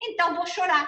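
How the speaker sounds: a hint of a defiant little girl; imitated daughter. Daughter answering her mother back, lightly voiced child. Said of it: "Ela olhou pra mim e fala".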